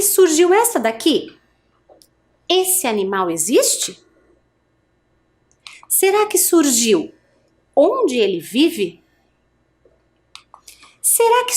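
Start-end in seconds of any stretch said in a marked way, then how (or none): 2.5-4.0 rising question tune on "Esse animal existe?"; question intonation. Shown as a demonstration. Teacher models a question for pupils, rising tune. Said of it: "perceberam o tom de voz que eu usei". 7.7-9.0 slow, deliberate "Onde ele vive?" as a question; question intonation. Shown as a demonstration. Teacher models a question for pupils, slow and clear. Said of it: "perceberam o tom de voz que eu usei".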